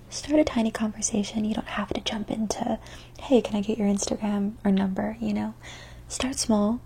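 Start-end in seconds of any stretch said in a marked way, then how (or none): 0.1-5.2 ASMR whisper. Acted. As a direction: whisper close to the mic.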